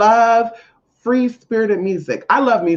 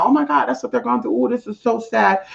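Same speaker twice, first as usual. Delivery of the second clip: higher-pitched mock pity; put-on sympathy; 5 semitones higher than usual. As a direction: act out showy sympathy for someone's troubles. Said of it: "It's not to, you know".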